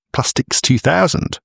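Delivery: high, slow, grand product name; grand mock announcement. Host hyping the plastics company name, mock grandeur. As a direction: announce Plastics two thousand like a big brand. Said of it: "which sounds good, doesn't it?".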